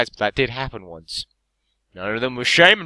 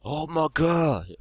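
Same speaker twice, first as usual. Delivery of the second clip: put-on British accent; 6 semitones higher, slower than usual. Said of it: "in England we probably say".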